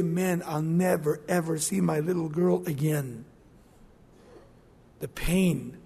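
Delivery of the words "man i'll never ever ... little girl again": grieving. Acted. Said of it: "You start to say".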